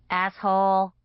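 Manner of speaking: hoarse croak, dry throat. Acted. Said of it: "I croaked".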